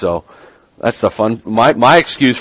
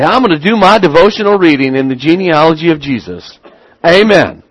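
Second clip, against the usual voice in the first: higher-pitched, lightly hammed-up pious enthusiasm; mock devotional zeal; 5 semitones higher than usual. Imagined believer doing devotions in the genealogy, mock-delighted. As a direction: play a mildly over-keen believer.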